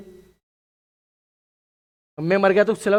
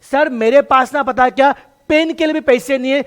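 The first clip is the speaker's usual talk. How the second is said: mock tearful plea; 6 semitones higher, 5 dB louder than usual. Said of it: "रोना शुरू करता है".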